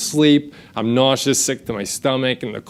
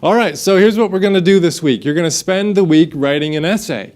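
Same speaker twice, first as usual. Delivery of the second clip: lightly voiced teacher, raised and brisk; 3 semitones higher, 3 dB louder than usual. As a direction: give out the assignment like a teacher. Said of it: "My teacher gets up, she's like".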